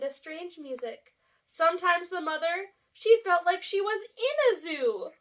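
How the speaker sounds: high, swelling storybook excitement; animated read-aloud. A narrator's reading. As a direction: build each grew up to the teenager. Reads story to children.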